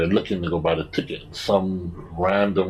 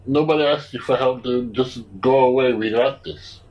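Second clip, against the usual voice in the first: higher, louder irritated retort; retelling, telling pushy stranger to go away, higher and louder; fed-up telling-off; 7 semitones higher, 5 dB louder than usual. Retold or imitated. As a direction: get rid of him, clearly irritated.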